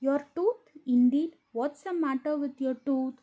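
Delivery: lightly acted aunt querying in surprise; surprised questioning. Aunt asks Tom about his tooth, mildly surprised. Aunt's startled question in story.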